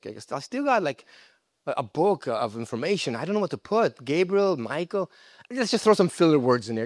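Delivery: hammed-up God padding the Bible; mock God. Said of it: "God didn't say".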